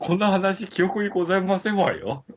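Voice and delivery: high, haughty refined lady voice; haughty rich girl japanese. Pretend. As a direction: act the snobbish ojousama. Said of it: "お上品スイッチ".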